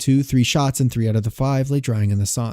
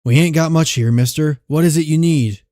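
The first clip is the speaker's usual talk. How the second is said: louder, higher rough frontier outlaw; gruff outlaw; 4 semitones higher, 5 dB louder than usual. Acted. A homesteader facing a gunman, loud and wary. Outlaw voiced in western story.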